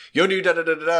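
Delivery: fast, high, eager rattled-off chatter. Imitating Luis talking to Paul Rudd: fast-talking Luis impression. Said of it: "Louis's character speaks so fast".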